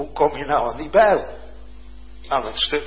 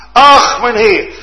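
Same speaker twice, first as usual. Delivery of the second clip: a louder, slower lament; mild cry of dismay; 9 semitones higher, 13 dB louder, slower than usual. Acted. Student dismayed about the sunken axe, loud and slow.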